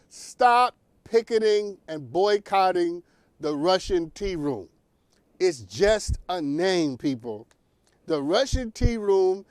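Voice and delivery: slow emphatic. Shown as a demonstration. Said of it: "please hear me".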